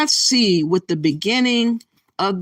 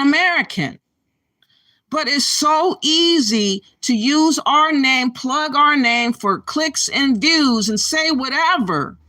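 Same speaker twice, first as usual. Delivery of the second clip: raised, heated, pressing each question; indignant rant; 5 semitones higher than usual. Real, not acted. Vlogger ranting to viewers about a Ghanaian's video, indignant. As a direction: call out the hypocrisy, voice climbing. Outraged commentary on the clip.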